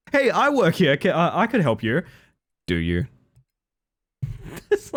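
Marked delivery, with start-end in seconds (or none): 0.1-2.0 earnest determined anime hero. Retold or imitated. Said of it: "sound like an anime protagonist without any self-esteem".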